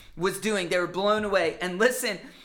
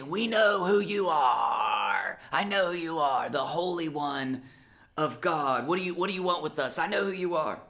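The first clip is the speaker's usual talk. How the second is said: terrified demons; 3 semitones lower than usual. Acted. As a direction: growl it low like cornered spirits. Demons speak, terrified of Jesus.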